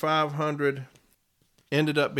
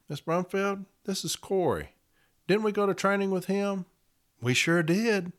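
mock chummy manager; 8 semitones higher than usual. Manager pretending they trained together.

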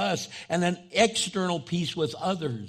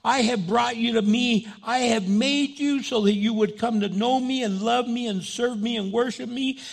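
voicing God; 5 semitones higher than usual. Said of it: "So God is saying".

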